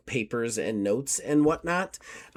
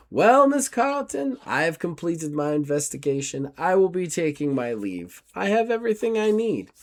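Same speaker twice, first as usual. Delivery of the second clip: a prim, courteous investigator, raised pitch; formal gentleman; 4 semitones higher than usual. Acted. GM as Gustav taking his leave of Miss Carlton, formal and polite.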